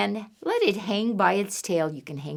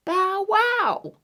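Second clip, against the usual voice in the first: mock dog bark; 10 semitones higher than usual. Counting rhyme, dog sound.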